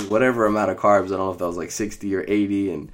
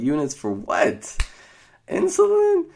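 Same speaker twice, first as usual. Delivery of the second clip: rising to a high, loud squeak on Insulin; disbelieving shriek of a question; incredulous; 13 semitones higher, 5 dB louder than usual. Retold or imitated. Newly diagnosed patient asking nurse in disbelief, high squeak.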